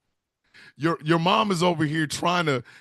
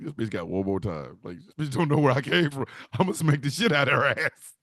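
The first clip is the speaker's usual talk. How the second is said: angry wife; 4 semitones lower than usual. Acted. Wife threatening grandmother, acted quote.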